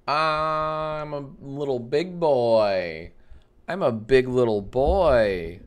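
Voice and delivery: slow, drawn-out goofy singsong; silly mic check. Pretend. Streamer testing the mic for the stream, silly and drawn out. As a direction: stretch the words out playfully.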